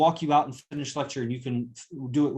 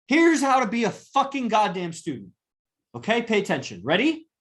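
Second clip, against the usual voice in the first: angry; 5 semitones higher than usual. Real, not acted. Angry lecturing of student.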